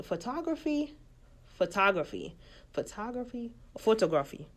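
photography said the Swahili way, fotografi; Swahili-accented photography. Shown as a demonstration. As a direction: say photography with Swahili vowels, fo-to-gra-fi. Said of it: "nilisema kiswa kabisa na hiyo Kiswahili accent".

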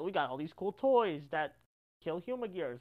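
ordinary talk

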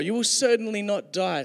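smooth-talking serpent assuring the woman; confident serpent. Acted. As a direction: sell the lie with swagger. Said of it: "Such confidence, the snake says".

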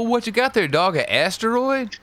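high cooing pet voice. Acted.

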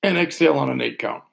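calm, paced counting with long pauses; slow breath counting. Shown as a demonstration. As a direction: guide the breath gently and slowly. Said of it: "I'll talk us through one more".

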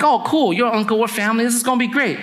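acted happy-go-lucky agreement; eager delight. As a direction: take up the offer with naive enthusiasm. Jacob delighted by uncle's job offer.

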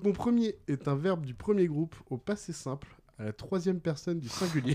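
deliberate, spaced-out quizmaster delivery; measured riddle reading. Real, not acted. Quizmaster gives players the first clue, measured. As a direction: set the clue out phrase by phrase.

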